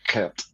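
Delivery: Gert with a throaty Dutch G; Gert, opening on a back-of-the-throat rasp; Dutch pronunciation. Shown as a demonstration. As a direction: say the G in Gert like a Welsh CH. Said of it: "I think that's how they say that".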